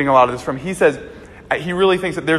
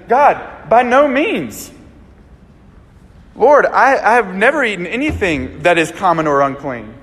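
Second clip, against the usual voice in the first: protesting Peter; 3 semitones higher, 3 dB louder than usual. Retold or imitated. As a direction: push back hard, half begging. Peter argues with God.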